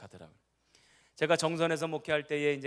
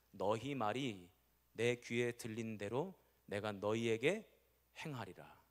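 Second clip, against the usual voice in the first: slow, soft, grave pronouncement; solemn voice of God; 4 semitones lower, 5 dB quieter, slower than usual. Retold or imitated. God answers the grumbling people, slow and soft. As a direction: deliver it like a quiet verdict. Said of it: "하나님이 그 이야기를 들으시고는".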